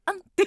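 imitating a little moaning "あん"; breathy little "あん" like the song's slip; mock moan. Radio host mimicking the singer's slip, a playful moan. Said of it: "しっかりあえいでましたね".

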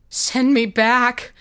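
high, slow, drawn-out cry; anguished scream. A narrator's reading. Revived boy begs the bishop for death, screaming. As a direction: cry out in desperate demand. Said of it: "screamed the boy".

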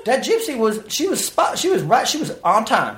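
high, breathless imitation of his wife; high mock gush with a laugh; mock excited wife. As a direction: pitch it up, gushing over the gypsy.

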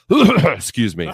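choked-up, slow, joking; hammed-up emotional catch; mock emotional. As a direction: pretend to be overcome with emotion. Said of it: "Sorry, I'm getting emotional".

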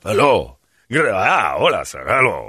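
imitated courtly attendant with swooping tune; beautiful speaking voice. Bathroom attendant greeting a customer, beautifully spoken. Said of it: "He's got a beautiful speaking voice".

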